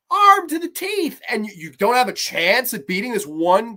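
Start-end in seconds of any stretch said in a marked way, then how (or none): 0.1-1.2 louder repeat. Real, not acted. Ranting repeat.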